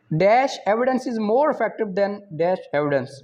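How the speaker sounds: slow, careful reading of an exam question; measured quiz reading. Acted. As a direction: read each option out deliberately. Reads exam question slowly.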